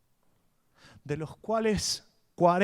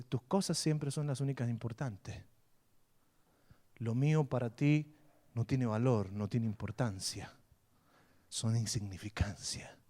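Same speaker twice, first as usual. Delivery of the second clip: wife crying; 4 semitones lower, 5 dB quieter than usual. Retold or imitated. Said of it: "Y empieza a llorar".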